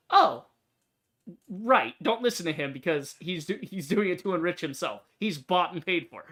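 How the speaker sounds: mock sign voice. Badge mocking a bought politician, sarcastic. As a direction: sneer it out like a public callout. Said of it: "then it's like".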